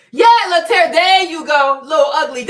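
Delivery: loud gleeful teasing call; excited teasing. Real, not acted. Streamer gleefully teasing Laterra, loud and excited. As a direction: crow it out, delighted at the joke.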